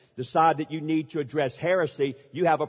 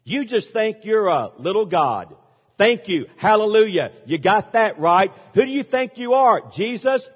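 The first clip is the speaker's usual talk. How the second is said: mocking preacher; 3 semitones higher, 4 dB louder than usual. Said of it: "when they're mad and want to put me down".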